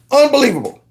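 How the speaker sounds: high exasperated disbelief; can't believe what he hears; incredulous. Real, not acted. Reacting in disbelief.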